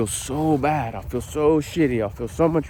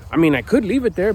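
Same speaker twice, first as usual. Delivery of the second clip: usual speaking voice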